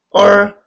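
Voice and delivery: 얼 high, loud and level; teacher models 얼 on a high pitch; pronunciation demo. Shown as a demonstration. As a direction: sustain 얼 as an isolated final. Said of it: "이는 어떻게 발음하죠?".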